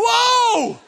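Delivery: long, high, loud whoa; drawn-out hammed-up cry of awe; mock amazement. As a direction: holler it out, wowed by a giant screen. Player wowed playing on Jumbotron.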